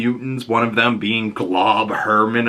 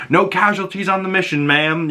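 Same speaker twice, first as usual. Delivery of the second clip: much higher, crisp report to a superior; soldier reporting in; 9 semitones higher than usual. Retold or imitated. X team reports to their boss, crisp and much higher. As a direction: snap off a report like a proud soldier. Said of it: "and they're like".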